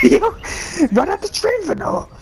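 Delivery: excited yelling. Real, not acted. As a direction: egg him on to run at the train, pitch shooting up. Yelling at teammate to run.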